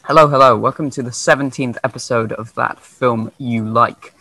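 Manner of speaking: echoey mic, like in a cave; recorded in a cave, with echo. Real, not acted. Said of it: "sounded like I was recording in a cave".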